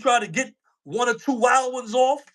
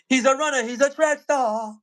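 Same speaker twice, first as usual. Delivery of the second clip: mock proud announcement; 5 semitones higher than usual. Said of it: "mocking cheer about Artie".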